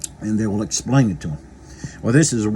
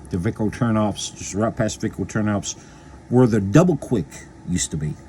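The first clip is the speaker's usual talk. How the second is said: mouth full. Real, not acted. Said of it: "I'm talking with my mouth full".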